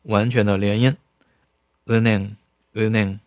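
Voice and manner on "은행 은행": fast read. Shown as a demonstration. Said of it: "它并不是完全的连音".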